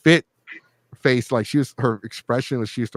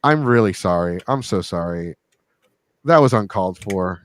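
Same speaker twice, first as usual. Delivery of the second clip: mock apology. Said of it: "I'm like".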